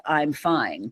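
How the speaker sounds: dropping the mask for a beat; retold teen repeating the same quiet I'm fine; quiet flat I'm fine. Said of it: "the chorus I sang".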